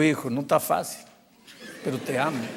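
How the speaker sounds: low, soft, sinking almost to a hush; tender reassurance. Retold or imitated. Pastor answers the hurt boy, soft and tender. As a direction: say it gently, as a patient father figure.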